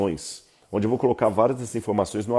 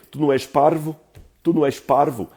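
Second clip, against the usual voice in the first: put-on a light European Portuguese accent, a bit higher and louder, "parvo" with a tapped r; Portugal Portuguese accent; 5 semitones higher, 4 dB louder than usual. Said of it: "Em português de Portugal, eu diria".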